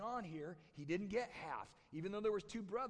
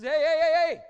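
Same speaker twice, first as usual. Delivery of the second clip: very loud, high burst of heys; interrupting shout; 10 semitones higher, 22 dB louder than usual. Acted. Dad interrupts his son's spiel, interrupting shout. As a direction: cut in at full shout as the father. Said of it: "Dad interrupts him".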